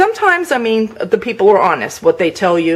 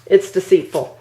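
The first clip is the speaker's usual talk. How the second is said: normal talking voice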